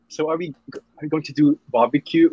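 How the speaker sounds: badly faked Texan accent, sounding British; attempted Texas accent. Shown as a demonstration. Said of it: "I can do a Texas accent".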